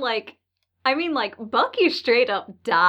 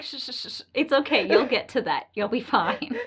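mock soothing; 4 dB quieter than usual. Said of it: "it's like".

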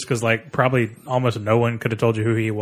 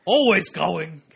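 terrible Arnold impression; 6 semitones higher, much slower than usual. Cohost tries the Arnold line for the podcast, hammed-up bad impression. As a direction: belt it as a bad Arnold, then trail off. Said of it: "our terrible Arnold impressions".

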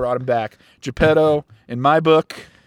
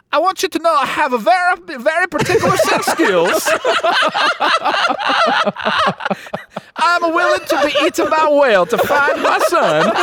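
high, fast gruff action-hero voice; hammed-up movie tough guy threatening the whale; Liam Neeson voice; 9 semitones higher, faster than usual. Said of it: "as Liam Neeson is to Taken".

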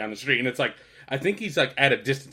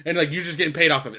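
imitating exasperated disbelief, slightly raised voice; incredulous explanation-seeking; 3 semitones higher, 4 dB louder than usual. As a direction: build the case like a baffled man. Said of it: "he asks for an explanation every time".

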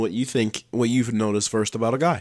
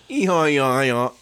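creepy laugh attempt; 4 semitones higher, 3 dB louder than usual. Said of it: "You have a deeper voice though".

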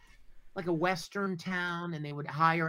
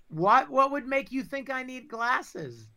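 overacted anime dub; 7 semitones higher, 5 dB louder, slower than usual. Joking denial of needing glasses.

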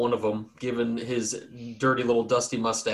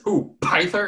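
a hint of an old farmer, high; puzzled old man's question; surprised old farmer; 7 semitones higher, slower than usual.

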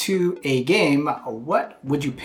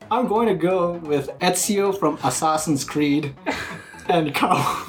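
mock Australian accent; 2 semitones higher than usual. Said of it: "I'm reading this Australian now".

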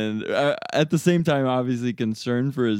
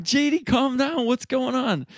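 calming; 3 dB louder than usual. Retold or imitated. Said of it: "And I'm like".

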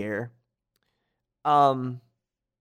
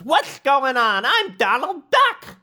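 very high, slow quacking cartoon voice; Donald Duck; 13 semitones higher, slower than usual. Mistaken duck asserts his name, high squawky voice. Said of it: "Donald says".

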